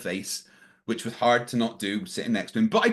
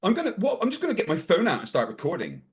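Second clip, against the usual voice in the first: higher-pitched, stammering mock indignation; imitating triggered outburst; 6 semitones higher than usual. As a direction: act out his flustered, triggered comeback. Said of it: "he started getting really triggered".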